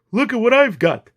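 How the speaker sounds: high, loud sing-out call; shouting. A narrator's reading. Captain luring cat with red package, shout. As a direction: holler it as a lure. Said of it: "he shouted".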